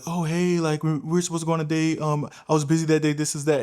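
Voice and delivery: high-pitched mock girl voice; imitating a girl. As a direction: put on a girl's voice making excuses. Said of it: "she'll hit me up and she'll be like".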